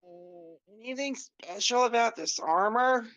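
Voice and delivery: words stretched through a yawn. Acted. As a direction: yawn your way through the question. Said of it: "he yawns while he's saying that".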